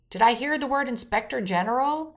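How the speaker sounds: mildly mocking. Newsreader quoting the president's jab at a reporter, mildly mocking. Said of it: "Trump mocked".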